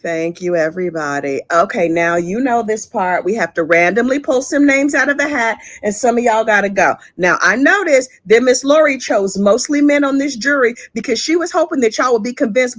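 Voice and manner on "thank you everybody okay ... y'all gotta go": lower, calm judge voice. Retold or imitated. Judge calmly addressing the courtroom, lightly voiced. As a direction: settle the room like a patient judge. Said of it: "the judge very calmly was like".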